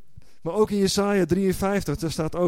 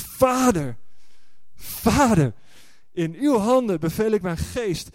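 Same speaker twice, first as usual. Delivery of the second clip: calling out; 4 semitones higher than usual. Retold or imitated. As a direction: cry it out to the Father. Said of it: "En hij roept het uit". (uitroepend, hoger en luider)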